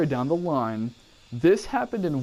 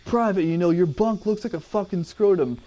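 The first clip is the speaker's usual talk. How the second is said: drill sergeant; 6 semitones higher than usual. Retold or imitated. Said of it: "He said that verbatim".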